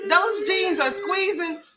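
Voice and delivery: slow, emphatic teasing; slow drawn out. Real, not acted. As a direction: stretch each word slowly. Dragging out words slowly.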